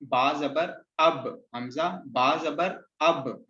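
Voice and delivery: slow, drawn-out spelling of बा जबर अब; slow demo reading. Shown as a demonstration. Teacher slowly spelling out a syllable for students. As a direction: spell it out slowly so the sounds join. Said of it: "हम आ की sound के साथ बा की आवाज को सिर्फ मिला देंगे".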